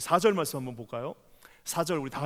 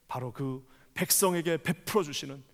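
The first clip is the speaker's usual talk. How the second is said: ordinary talk, nothing marked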